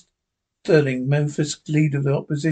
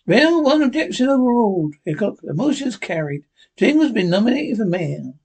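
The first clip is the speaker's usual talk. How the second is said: higher, lightly voiced smug sidekick; a sidekick gloating after the shot; Jingles' voice; 6 semitones higher than usual.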